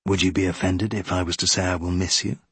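low, quick, tentative suitor; hint of a gentleman venturing a compliment; lightly voiced captain. Captain confessing to the widow, lightly voiced and low.

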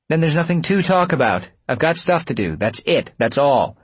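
high, insistent snap; irritated dismissal. A narrator's reading. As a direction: shut the argument down crossly. Acted quarrel, shutting the talk down.

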